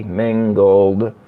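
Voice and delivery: slow, drawn-out mangled unicorn; "Mangled unicorn" spoken slowly, word by word. Shown as a demonstration. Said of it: "If I say it fast".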